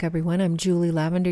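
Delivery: usual speaking voice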